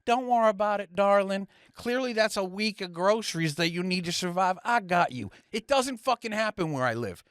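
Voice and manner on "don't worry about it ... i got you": Southern drawl. Pretend. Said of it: "some Southerner's gonna walk up and be like".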